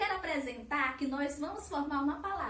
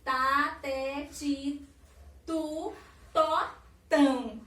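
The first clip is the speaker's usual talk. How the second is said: syllables spaced apart, louder at the end; 5 dB louder, much slower than usual. Shown as a demonstration. Teacher reciting the syllable series for children, syllable by syllable. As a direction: recite each syllable on its own, clearly separated. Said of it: "que eu falo organizada em sequência".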